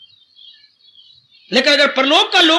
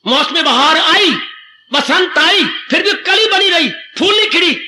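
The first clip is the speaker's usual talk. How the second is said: rising lament; 5 semitones higher than usual. Real, not acted. Preacher builds a lament.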